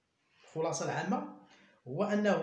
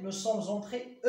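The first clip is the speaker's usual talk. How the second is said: slow dictation; much slower than usual. Shown as a demonstration. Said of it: "أو أكسون أو إس".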